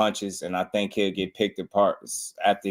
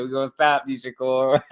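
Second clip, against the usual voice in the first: higher mock tough talk; imitating the threat; 5 semitones higher than usual. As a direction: echo the threat with a smirk. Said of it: "He said".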